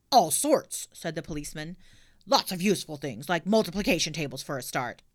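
loud lecturing officer; lightly voiced stern policeman.

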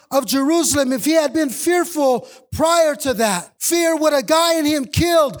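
driving pulpit voice, building conviction; fervent preaching. Acted. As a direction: preach it to the congregation with fire. Preaching at full force.

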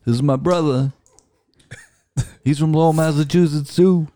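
high, lively Boston accent put on; a light Boston accent on request; Irish-tinged Boston accent. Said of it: "I got really Irish there".

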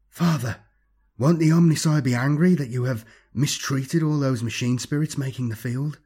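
put-on earnest young follower. Ossel questioning his master after the blast, earnest follower. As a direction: ask with a touch of innocent concern.

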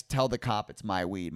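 usual speaking voice

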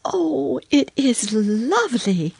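put-on high, delighted little girl; delighted admiration. A narrator's reading. Lucy admires the ironing.

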